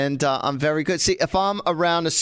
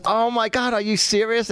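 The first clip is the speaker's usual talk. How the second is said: higher-pitched imitation of happy surprise; pleasantly surprised; 7 semitones higher than usual. Bride learning who her mother hired, imitated pleasant surprise. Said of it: "she was pleasantly surprised".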